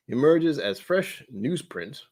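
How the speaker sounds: slow put-on English butler delivery; English butler accent. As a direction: read slowly in an English accent. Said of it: "I slipped into an accent by accident".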